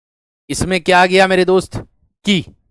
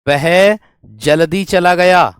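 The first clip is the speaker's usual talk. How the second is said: slow, louder reading; slow dictation; 3 dB louder, much slower than usual. Shown as a demonstration. Teacher dictates the clause slowly and clearly. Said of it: "मैं कह दूं".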